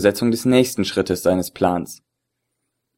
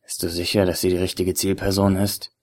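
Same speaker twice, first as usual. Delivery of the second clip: whispered; 2 semitones lower, 6 dB quieter than usual. Acted. Agent checks the target over the phone, hushed. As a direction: keep it hushed and secretive. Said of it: "flüsterte er in sein Handy".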